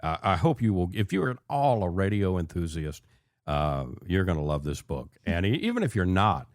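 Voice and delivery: welcoming host intro over music; radio host. Acted. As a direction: bring listeners back into the show. Host return from break.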